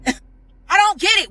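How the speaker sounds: slow, high, half-laughing, half-crying; laughing in disbelief. Real, not acted. The speaker asks Dennis why he posted her, laughing in disbelief.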